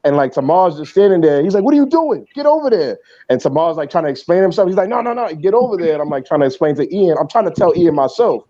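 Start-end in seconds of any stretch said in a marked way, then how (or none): 1.6-3.0 high, heated mock coach shout; imitating angry coach. Coach Ian yelling at Tamar to get over there, imitated angry shout. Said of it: "he's going crazy". 4.9-5.9 imitating angry coach. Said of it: "he's going crazy".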